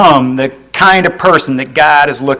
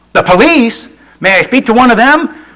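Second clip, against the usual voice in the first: high-pitched, taken-aback question; startled caller; 7 semitones higher than usual. Acted. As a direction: react in surprise at the child's answer. Caller startled by child's answer.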